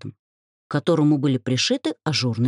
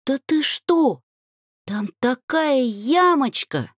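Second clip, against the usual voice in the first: gushing dryad; 10 semitones higher, slower than usual. Acted. Dreamy friend gushing.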